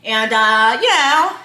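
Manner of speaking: mock-proper, hesitant filler; imitating Justin. Imitating boyfriend stalling before his complaint, hesitantly proper. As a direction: stall politely, exaggerating each hesitation. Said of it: "he talks really proper".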